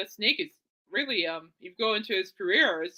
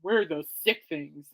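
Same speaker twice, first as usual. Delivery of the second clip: lower, slower death metal take; a lightly growled death metal band name; mock death metal; 4 semitones lower, slower than usual. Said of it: "death metal?".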